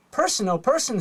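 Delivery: delighted little hen; overjoyed exclamation; joyfully. Acted. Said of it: "said Chicken Little joyfully".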